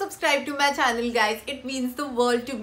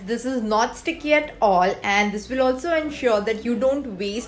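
face mask on, stiff cheeks; speaking with face covered; through a sheet mask; 3 semitones lower than usual. Real, not acted. Seen 0: Wet sheet mask covers her face; mouth opening stays free.

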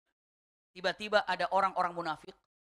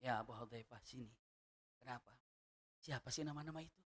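soft, lower coaxing plea; coaxing softly; 7 semitones lower, 14 dB quieter than usual. Retold or imitated. Umar coaxes Abu Hudzaifah for the names, soft and low. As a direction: sweet-talk him into telling.

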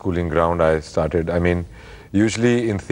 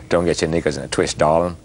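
American-sounding Aussie attempt; 3 semitones lower than usual. Shown as a demonstration. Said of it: "Oh, that was American".

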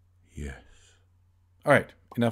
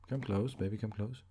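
put-on softer, coaxing come close baby; coaxing softly; 7 dB quieter than usual. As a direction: lure it in gently and quietly. Coaxing a game character closer.

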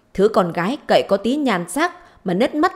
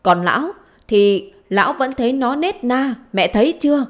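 higher, raised-voice acted grievance; indignant complaint; 3 semitones higher, 4 dB louder than usual. Mother complaining to her daughter about husband's children, indignant. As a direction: pour out accusations with rising pitch.

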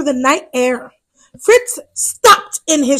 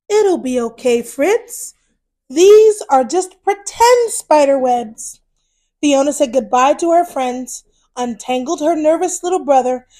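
put-on reading to children. A narrator's reading. To children, reading a Halloween picture book, lively storyteller voice. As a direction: tell it brightly to little ones.

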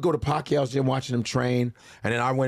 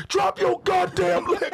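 much higher, slow drawn-out yell; yelling trainers; slower than usual. Retold or imitated. Trainers yelling at comedian's stance, much higher slow yell. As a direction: drag each word out in frustration. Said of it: "they're like".

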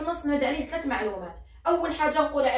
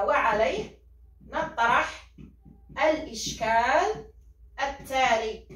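word by word, with pauses, for students to write; dictating slowly; much slower than usual. Shown as a demonstration. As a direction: dictate the model sentence. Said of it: "دير هكذا". (إملاء بطيء كلمة بكلمة)

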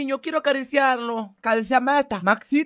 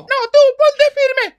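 loud, high, drawn-out command; angry order; 11 semitones higher, 6 dB louder, slower than usual. Acted. Mother to the drunk who misunderstood, exasperated order. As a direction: lay down the order slowly and forcefully.

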